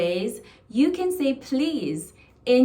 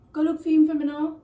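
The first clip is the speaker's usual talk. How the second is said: higher, louder, fast Jamaican patois; 7 semitones higher, 6 dB louder, much faster than usual. Shown as a demonstration. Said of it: "So it's like".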